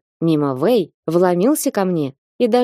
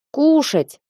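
low cat voice; 7 semitones higher than usual. A narrator's reading. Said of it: "вякнула низким голосом Бася".

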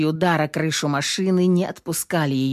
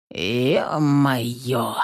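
loud oath; 5 semitones lower than usual. A narrator's reading. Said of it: "звучно припечатал третий".

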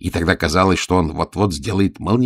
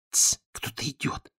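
hushed unvoiced whisper, a little higher; 7 semitones higher, 9 dB quieter than usual. Frightened page whispers to his friend. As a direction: whisper a warning that someone comes. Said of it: "шепнул паж".

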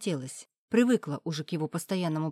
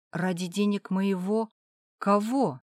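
insinuating ask; 3 semitones higher than usual. Acted. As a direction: ease the question out gently. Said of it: "спросила вкратчиво".

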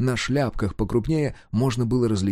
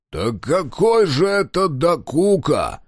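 slow, higher, put-on voice of a stern boyar; indignant boyar; 5 semitones higher, 3 dB louder, slower than usual. A narrator's reading. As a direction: demand it with lordly indignation. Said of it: "с негодованием вопросил боярин".

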